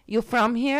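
imitating a New Jersey guy, on the edge of laughing; thick New Jersey accent. Host retelling the guy's approach, mock New Jersey accent. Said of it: "with the thickest New Jersey accent".

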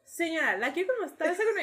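high voice asking the customer; lightly acted order-taking; imitated shop worker. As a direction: put the question to a difficult caller. Voices worker answering the crying caller.

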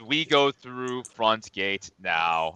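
slow, blunt brute voice; Nordor. Acted. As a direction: state it word by word. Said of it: "Nordor says".

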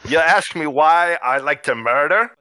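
indignant dwarf in mock Scottish brogue; lightly put-on Scottish, outraged; bad Scottish accent. Murder hobo boss scoffing at the question in Scottish accent. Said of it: "bad Scottish accent".

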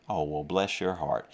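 put-on kindly sympathy, said gently; a mild, sweetly condescending Southern consolation; kind-sounding. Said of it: "kind-sounding way of saying".

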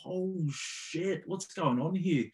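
put-on a high, startled young voice; shocked young player. Young player stunned by the coach's outburst, high shocked voice. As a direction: gasp it out like a stunned teenager. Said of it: "I was young, just like".

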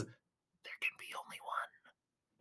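breathy whisper with a laugh at the start. Shown as a demonstration. Commentator dodging a Highlander lawsuit, whispering. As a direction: hush it so nobody hears the quote. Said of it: "I gotta whisper it".

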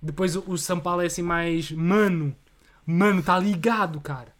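slang-heavy São Paulo accent; laid-back São Paulo slang voice. Shown as a demonstration. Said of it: "sabes imitar bué da bem".

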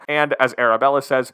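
ordinary talk, nothing marked

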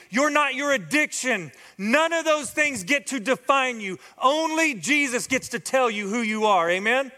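high, ringing preacher's climax; preaching at full force. Real, not acted. Pastor to church family, preaching at full force. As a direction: lift the room with a rising sermon cry.

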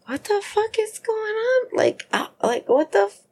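high, panicked cries from being tied up; alarmed calling out. Retold or imitated. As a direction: call out in alarm, pitched far up. Tied up, hearing commotion.

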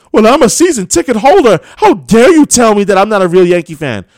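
mimicking an entitled season ticket holder; mock indignant fan. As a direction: play the offended season ticket holder mockingly.

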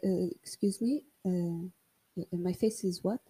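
soft, taken-aback question; hushed, can't believe what she heard; quiet stunned echo; stunned disbelief. Retold or imitated. Stunned reply to insult.

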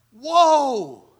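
big, loud, high exclamation of wonder; loud mock-awed outburst; awestruck. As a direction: belt it out in retold amazement. Retold awe inside the clubhouse.

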